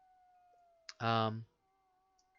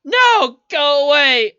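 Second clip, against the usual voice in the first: shrill scream, far higher and louder; mother screaming; 14 semitones higher, 16 dB louder than usual. Acted. Mother screams at the crone to go away. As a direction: scream her child away from the door. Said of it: "screams out and goes".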